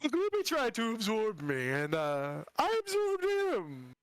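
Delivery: creepy sing-song undead voice; Lich voice. Acted. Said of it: "the voice is a side effect".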